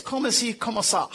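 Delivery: softly tossed-off French reply; would-be cool French. Retold or imitated. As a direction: toss it off quietly, trying to sound cool. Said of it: "I thought it sounded kinda cool".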